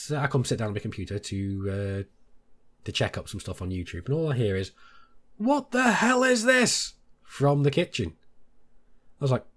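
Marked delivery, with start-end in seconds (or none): 5.4-6.9 mimicking the wife. Wife exclaims from the kitchen.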